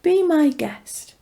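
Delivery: courteous, unhurried charm. A narrator's reading. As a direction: smile charmingly as you welcome a guest. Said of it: "he smiled charmingly and said".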